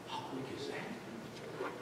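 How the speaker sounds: slow whispered wonder; awed whisper. Real, not acted. Preacher marvelling to the congregation, slow whisper. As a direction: breathe it in amazement.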